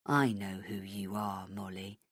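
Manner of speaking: Hennessy whispering a threat to the heroine; menacing whisper. Acted. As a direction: breathe it into her ear.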